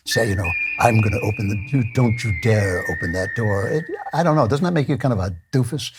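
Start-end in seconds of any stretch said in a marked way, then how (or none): 0.8-1.6 mock tough guy. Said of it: "do you have to talk like that". 1.8-3.7 quick, lightly stern macho parody; mock command. Host first quoting the guru's door line, quick mock command. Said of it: "do you have to talk like that".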